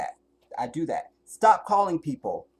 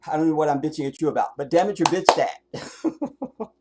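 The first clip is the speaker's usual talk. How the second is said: louder mock scolding; playful scolding; 6 dB louder than usual. Real, not acted. Bitching at the viewers for no reason, loud and half-joking.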